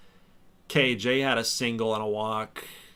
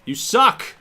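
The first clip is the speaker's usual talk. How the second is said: much higher and louder jeering shout; full heckler shout; 11 semitones higher, 8 dB louder than usual. Pretend. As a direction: yell it like a rowdy fan in the stands. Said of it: "I'm gonna talk so much crap to him".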